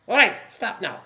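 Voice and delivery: put-on curt German accent order. Commandant halting the prisoners, sharp German accent. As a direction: stop them short in a German accent. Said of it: "heard you do an accent".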